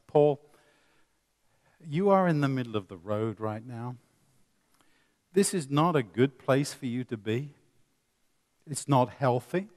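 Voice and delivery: calm and reasonable. Retold or imitated. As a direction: gently invite him back to the curb. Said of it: "I could say it like that".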